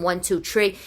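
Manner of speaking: THREE said as "tree"; "tree" with a plain T for TH; old-timey New York pronunciation. Retold or imitated. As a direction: drop the H sound, saying "tree". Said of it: "some people are saying".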